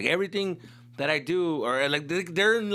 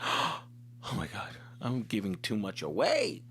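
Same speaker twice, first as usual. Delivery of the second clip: mock panicked gasp; 4 semitones lower, 4 dB quieter, slower than usual. Retold own panic leaving.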